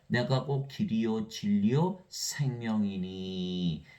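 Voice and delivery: 아주 느리게 읽는 성경 낭독; 말씀을 한 자 한 자 천천히 읽듯이; slow scripture reading. Acted. Reads scripture slowly. (성경 구절을 천천히 낭독)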